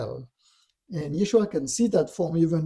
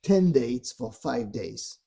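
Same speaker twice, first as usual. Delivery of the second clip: imitating a goading tempter; lightly scornful challenge ending in a question; taunting. Dark voice goading Yeshua about his strength, taunting. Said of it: "he's really taunting him".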